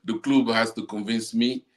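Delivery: mock the Argentine coach's accent; a hint of an Argentine Spanish accent; Argentina accent. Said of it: "that's your Argentina accent".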